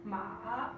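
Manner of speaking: ma dipping down then up; falling-rising tone on ma; third tone ma. Shown as a demonstration. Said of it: "for tone three".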